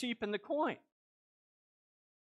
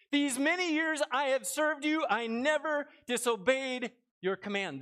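higher, louder complaint; aggrieved son; 4 semitones higher, 4 dB louder than usual. Acted. Older son complaining to his father, louder and higher. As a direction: press the grievance hard.

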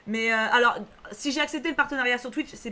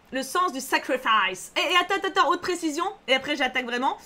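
normal talking voice

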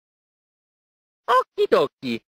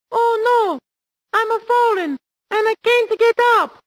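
hammed-up, higher 'help I've fallen' ad cry; mock TV ad plea; 12 semitones higher than usual. The speaker spoofing an American TV ad, hammed-up and higher. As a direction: play the helpless man from the old commercial, lightly. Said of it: "That is my impression of American advertising".

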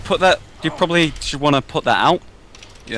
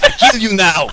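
deadly cyber voice; 7 semitones higher, 5 dB louder than usual. Pretend. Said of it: "Do deadly cyber voice".

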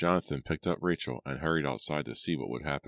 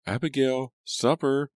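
high, loud summons from the door; calling out; 11 semitones higher, 6 dB louder, slower than usual. A narrator's reading. Mother calls Abigail home for supper, calling loudly. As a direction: call a child in, pitched way up. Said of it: "went to the door and called".

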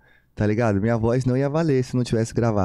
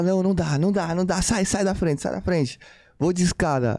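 mocking the old woman, higher; an upset old neighbour shooing him off, higher; irritated neighbour; 6 semitones higher than usual. Vizinha se recusando, irritada. (vizinha irritada imitada, voz mais aguda)

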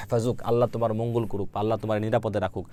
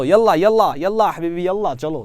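ইয়াল্লা called out higher and louder; energetic drill; 6 semitones higher, 6 dB louder, faster than usual. Shown as a demonstration. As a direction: urge them on with ইয়াল্লা. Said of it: "আপনাদের কিন্তু বারবার মুখ দিয়ে বলতে হবে". (উঁচু গলায় ইয়াল্লা ইয়াল্লা)

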